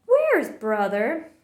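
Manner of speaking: calling through the house; Mama calling for her son. A narrator's reading.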